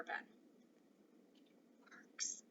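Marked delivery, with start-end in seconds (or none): 1.9-2.4 whispered on the breath, no voice. Acted. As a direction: barely breathe the word in awe. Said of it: "breathed Omri".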